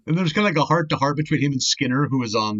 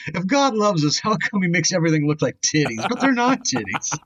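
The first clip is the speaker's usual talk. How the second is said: put-on old taxi driver voice; 2 semitones higher than usual. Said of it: "you just talk like an old taxi driver".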